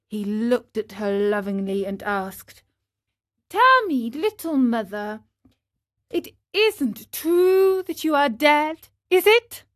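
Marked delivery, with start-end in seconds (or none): 3.5-9.6 put-on higher, quick, hopeful puppet boy; Pinocchio's eager voice. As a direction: pour out the wish like an eager little boy.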